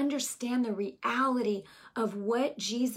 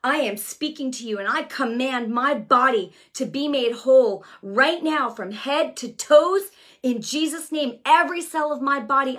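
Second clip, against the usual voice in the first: commanding declaration; 6 dB louder than usual. Retold or imitated. Preacher to her own body, a loud commanding prayer. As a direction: declare it with full authority.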